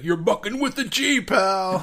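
high, loud mock yell of a man mid-fight; imitated choking yell. Scott Mosier in a choking fight in Mallrats, imitated high yell. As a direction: yell it as if being choked in a fight. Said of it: "they're choking each other out".

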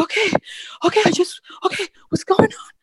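high, tearful fluster; retold panic. Mother answers urgent doctor, high panicked confusion. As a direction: re-enact a panicked, bewildered patient.

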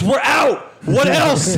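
high, loud curt demand; donut lady voice. Retold or imitated. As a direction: bark the order like a brusque shopkeeper. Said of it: "And she goes".

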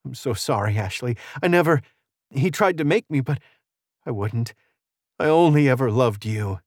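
mildly emotional, halting apology; tearful Audrey. Acted. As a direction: confess love through held-back tears.

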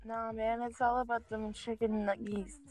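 soft teasing correction; low insistent murmur. Real, not acted. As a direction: murmur it like a secret conviction. Rebutting friend's chicken wings.

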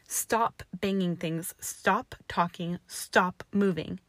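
slow angry demands; slow angry orders. Acted. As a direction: spell out each order, slow and hard. Angry repeated commands.

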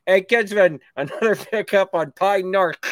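lightly voiced taxi dispatcher; a hint of a dispatcher on the radio. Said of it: "I'll be like the taxi, uh, dispatcher".

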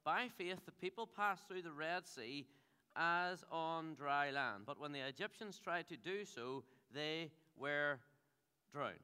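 slow, measured Bible reading; scripture reading. Acted. Pastor reading Hebrews to the church, slow and measured. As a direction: read each word of the verse with weight.

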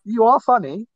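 mean it this time, lift "are"; sincere. Real, not acted. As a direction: make the compliment sound genuine. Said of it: "I didn't sound sincere there, but".

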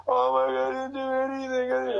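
high, whiny mock protest; imitating his own frantic innocence; panicked denial. Rookie answering the captain, hammed-up panic.

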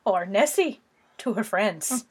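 put-on playful Scottish accent, leaning Irish; mock Scottish accent. Reading about Nessie for the co-host, mock Scottish accent. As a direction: read it in a faked Scottish brogue. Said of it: "read this in a Scottish accent".

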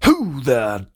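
put-on crusty frontier old-timer voice; old prospector. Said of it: "and he's like".

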